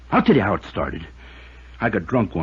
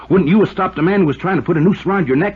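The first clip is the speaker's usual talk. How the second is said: desperate outburst; 10 semitones higher, 6 dB louder than usual. Acted. Cornered foreman pleading desperately.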